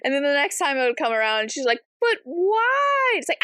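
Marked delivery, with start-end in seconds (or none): 2.0-3.1 mock whiny question. Alice voiced whining.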